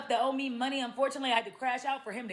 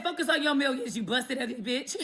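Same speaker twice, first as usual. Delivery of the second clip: laughing roast; laughing insult. Retold or imitated. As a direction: insult read through laughter. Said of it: "I said".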